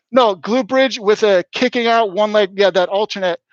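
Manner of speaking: muffled behind a face mask; talking through a mask, words dulled. Real, not acted. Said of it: "still trying to speak through the mask".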